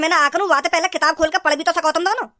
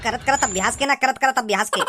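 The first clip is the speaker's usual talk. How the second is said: mocking imitation; 5 semitones lower than usual. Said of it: "dialogue मरवा लो बस".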